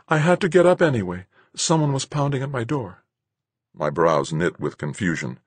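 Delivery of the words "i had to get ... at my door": teasing. A narrator's reading. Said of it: "a little more lightly".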